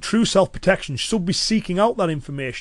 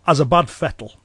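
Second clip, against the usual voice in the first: Cumbrian dialect phrase. Shown as a demonstration. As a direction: say it as a Cumbrian local would. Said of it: "if someone in Cumbria was to say".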